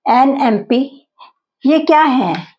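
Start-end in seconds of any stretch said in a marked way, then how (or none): 0.1-1.1 "an एम पी" said slowly, "an" linked to "एम"; slow it down for students; slow model. Shown as a demonstration. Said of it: "खासकर abbreviations में". (धीमे, साफ़ "an एम पी")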